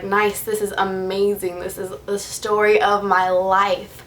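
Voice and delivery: slow, drawn-out mock delight; retold deadpan sarcasm; sarcastic. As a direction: stretch it out with heavy irony. Sarcastic reaction to being reported.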